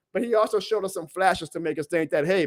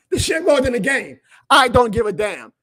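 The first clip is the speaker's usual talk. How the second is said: louder, punching MORE and I; real fan pride, raised voice; fired-up shout; 3 semitones higher, 6 dB louder than usual. Real, not acted. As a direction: keep the defiant yell going. Fired-up rant after a win.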